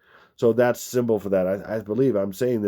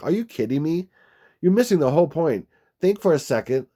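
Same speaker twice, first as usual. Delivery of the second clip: exasperated disbelief; 5 semitones higher than usual. Retold or imitated. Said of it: "that's some of my tone of my voice".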